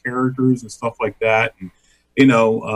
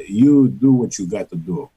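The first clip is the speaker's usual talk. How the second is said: put-on Greek American accent; 5 semitones lower than usual. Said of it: "my father with that Greek American accent".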